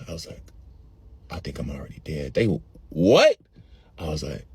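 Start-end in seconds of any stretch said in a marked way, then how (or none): 1.3-2.3 very low, soft deadpan; spaced-out low murmur; dazed stoner. Retold or imitated. Dazed stoner answers friends. 2.9-3.4 louder, sharply rising question; incredulous what; baffled mock reaction. Friends baffled by his claim.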